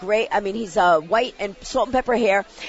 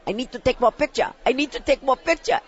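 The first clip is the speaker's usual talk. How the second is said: imitating Japanese accent. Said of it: "she's going like this".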